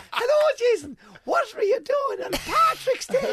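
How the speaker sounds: high, loud, slow put-on host voice; mock radio host. Australian radio host greeting the comedian, loud mock host. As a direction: ham up a booming radio presenter. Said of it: "And they're going".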